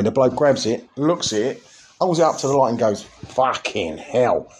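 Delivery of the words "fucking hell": very slow, drawn-out disbelief; joke-teller's long-drawn astonishment; mock appalled amazement. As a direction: stretch out each word in stunned awe. Bloke inspects the murky pint.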